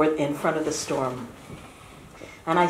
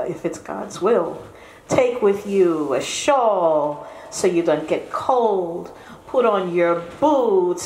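put-on a mother fussing over her boy; soft worried mother. Mother fussing as her son leaves for winter. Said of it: "She says".

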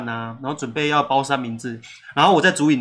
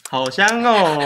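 slow, drawn-out mock delight; ironic praise; 3 semitones higher, 3 dB louder, much slower than usual. Owner joking about eating the spilled breakfasts, slowly. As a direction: savor the soggy food with irony.

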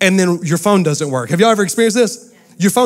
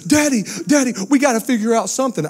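put-on whiny kid; 5 semitones higher than usual. Kids begging Daddy about the Wi-Fi, high whiny child voice. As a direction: plead like a panicked little kid. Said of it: "I'm telling you, ten minutes later".

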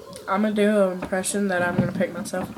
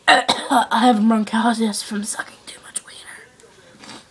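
slow, half-whispered mock croak; Jacob Soros; 4 dB louder, slower than usual. Boy mocks YouTuber's bronchitis, slow whispery voice. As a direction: clear the throat, drag it out breathily. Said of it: "I'm doing his impression".

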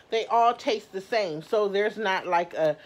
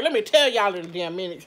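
louder, laughing through the words; 5 dB louder, faster than usual. Real, not acted. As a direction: chuckle while you say it. Laughing while complaining about donuts.

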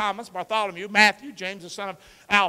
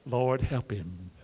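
exasperated prayer; 6 semitones lower, 4 dB quieter, much slower than usual. Retold or imitated. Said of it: "You look at me like".

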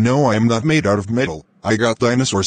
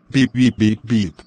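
robot beeping. Pretend. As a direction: beep like a machine. Dad turned into a robot.

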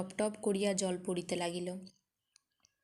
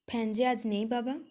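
breathy whisper to her father; 3 semitones higher than usual. Acted. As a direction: whisper the bad news gently. Daughter breaks bad news to father. (বাবাকে খারাপ খবর দিতে ফিসফিস করে বলা)

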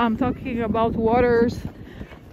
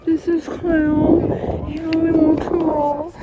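imitating Manny; 4 semitones higher, slower than usual. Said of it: "I love when he does".

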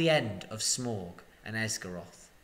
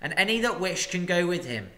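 master's speech; 5 semitones higher, 4 dB louder than usual. Acted. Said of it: "master addresses the crowd".

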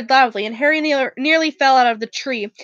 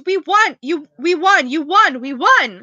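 shouted; 2 semitones higher than usual. Acted. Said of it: "shouted Ron".

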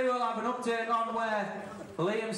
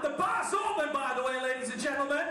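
hype shout. Real, not acted. Announcer hyping the crowd.

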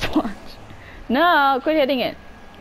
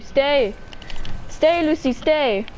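calling out; 6 semitones higher, much slower than usual. Real, not acted. Kid begging the game character Lucy to stay, pleading call. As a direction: call her back urgently.

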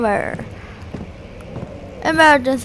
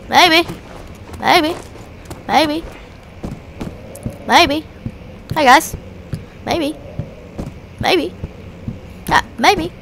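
teasing repeats; 3 semitones higher than usual. Pretend. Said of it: "I'm just trying to be funny".

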